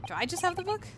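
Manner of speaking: lightly voiced young woman. Voicing Susato, game dialogue.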